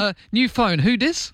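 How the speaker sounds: high sassy who dis; playful pretend stranger; sassy phone answer.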